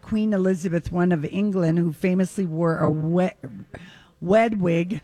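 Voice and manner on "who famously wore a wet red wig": "wed wig" with a w sound for the r; "wed" said as w-e-d instead of red; says w for r. Real, not acted. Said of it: "I cannot say my R's".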